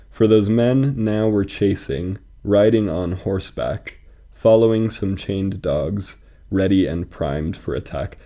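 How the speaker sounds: measured, metrical verse reading; poem reading. Acted. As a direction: recite it line by line, leaning on the rhythm. Reads poem aloud.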